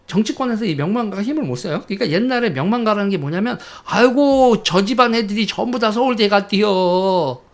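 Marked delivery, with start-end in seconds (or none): 3.9-7.4 a light, drawn-out Chungcheong dialect village elder's brag; mock Chungcheong dialect. Commentator imitates a Chungcheong villager bragging, light Chungcheong dialect. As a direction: imitate a Chungcheong local bragging about the neighbours' kids. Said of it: "이건 충청도 사투리인데".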